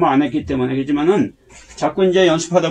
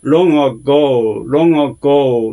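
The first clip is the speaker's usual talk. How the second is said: long ago with a drawn-out, accented "go"; stress on GO; 2 semitones lower, 4 dB louder, much slower than usual. Shown as a demonstration. Teacher explaining the accent, strong "go" in long ago. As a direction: lean on the last syllable of long ago. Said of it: "오의 발음이, 액센트가".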